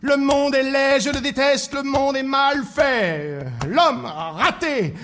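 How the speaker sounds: slow, drawn-out ranting litany; gloomy griping. Acted. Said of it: "Il pouvait broyer du noir".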